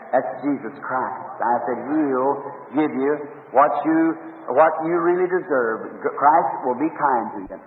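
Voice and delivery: slow and soft, lingering on each word; tender reassurance. Retold or imitated. Preacher gently reassuring Indians that Christ will be kind. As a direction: gently promise them Christ's kindness.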